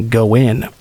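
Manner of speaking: flat, lifeless command; eerie monotone. Acted. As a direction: say it with no feeling at all. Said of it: "in an eerily monotone voice".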